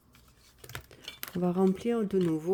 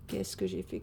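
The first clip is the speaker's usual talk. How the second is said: much lower, playful musing in a put-on deep voice; mock deep voice; 12 semitones lower than usual. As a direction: drop the voice way down as a joke. Repeats the question to herself.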